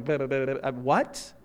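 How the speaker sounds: low flustered splutter, then a rising "what?"; mock surprise. Jesus hears the centurion's answer, mock flustered surprise. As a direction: burble wordlessly as if dumbfounded, softly acted. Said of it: "genuinely surprised".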